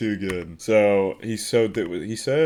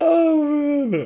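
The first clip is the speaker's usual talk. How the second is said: very high, giggly, laughing through words; 3 dB louder than usual. Reacting to a scene in a giggly mood: giggly laughing while talking. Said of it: "I must be in some kind of giggly mood".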